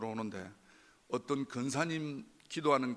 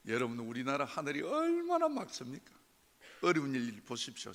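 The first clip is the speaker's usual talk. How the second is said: ordinary talk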